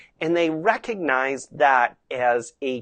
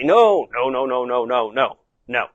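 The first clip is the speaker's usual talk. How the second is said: first no stressed, then lower repeats; settling tone; 4 semitones lower, 3 dB louder than usual. Shown as a demonstration. Rider checking horse as it spins away, settling. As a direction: correct him, then ease down calmly. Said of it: "just my tone of voice to settle the horse".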